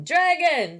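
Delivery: high, loud panicked cry; yelling crowd. A narrator's reading. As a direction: shout it in terror. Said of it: "all the people were yelling".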